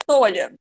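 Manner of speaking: "tolha" with O and A squeezed into a single quick syllable; run together as one syllable. Shown as a demonstration. Teacher shows students the wrong merged form, "tolha" run together. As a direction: say "tolha" fast, vowels merged. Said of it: "Tinha que ser bem rapidinho".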